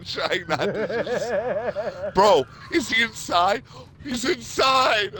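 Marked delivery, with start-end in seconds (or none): 2.1-5.1 high, loud, slow yelled question; excited shout. Retold or imitated. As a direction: yell it with disbelief. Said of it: "I'm like".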